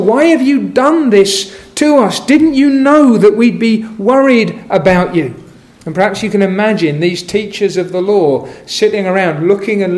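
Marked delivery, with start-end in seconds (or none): 0.0-5.3 a touch of a frantic mother's rebuke, pitched up; mock anguished scolding, relief underneath; relief, fear and anger. Mary rebuking her son found at last, mildly anxious. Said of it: "combination of relief and fear and anger".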